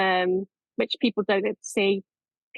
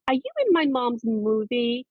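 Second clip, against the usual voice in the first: put-on light American accent, pitch lifting on the question; 3 semitones higher than usual. Son asking parents at school evening, light American accent. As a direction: imitate her son's American accent, lightly. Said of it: "I'm doing an American accent".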